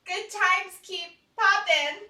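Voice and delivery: drawn out slowly; slow savoring. Shown as a demonstration. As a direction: stretch each word slowly.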